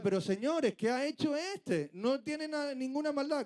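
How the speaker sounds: a hint of a governor begging the crowd; Pilate pleading. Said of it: "Y Pilato decía".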